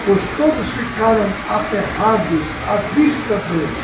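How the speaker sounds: measured, solemn reading aloud; scripture reading. Acted. Pastor reading Mark's Gospel to the congregation, measured scripture reading. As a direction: read out the Gospel passage with deliberate phrasing. Reads the Bible passage aloud.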